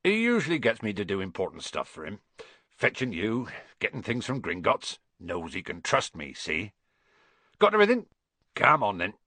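proud, chatty giant; puffed up with importance; proud Hagrid. Acted. Hagrid boasting to Harry about Dumbledore's trust, proud.

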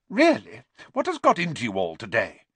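peeved schoolmistress; exasperated teacher. Acted. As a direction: demand an explanation from the class. Puzzled teacher scolds her silent class.

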